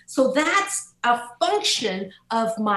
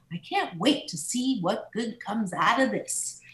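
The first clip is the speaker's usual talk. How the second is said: sincere hopeful; 4 dB quieter than usual. Retold or imitated. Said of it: "with as little sarcasm as possible".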